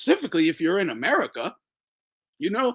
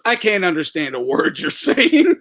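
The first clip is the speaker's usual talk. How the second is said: imitating Trump; 5 dB louder than usual. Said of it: "Trump goes".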